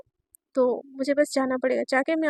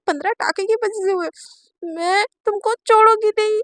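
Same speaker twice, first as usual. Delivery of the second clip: louder, higher, indignant; self-pitying rant; 4 semitones higher, 3 dB louder than usual. Acted. Naina ranting alone about her humiliation, indignant. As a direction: rage at the stitches.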